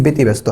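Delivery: ব্যতিব্যস্ত starting with a plain "be"; closed "e" vowel. Shown as a demonstration. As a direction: say ব্যতিব্যস্ত as "be-ti-bæsto". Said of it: "আমরা একার লিখতেছি".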